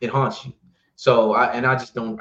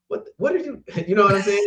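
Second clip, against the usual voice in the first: laughing; 8 semitones higher, 6 dB louder, faster than usual. Retold or imitated. Confused worker voiced, laughing.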